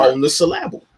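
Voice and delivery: "syllable" said suh-LAB-ul; changed word stress. Shown as a demonstration. Admitting the trick to co-host, "syllable" said suh-LAB-ul. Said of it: "I changed the emphasis".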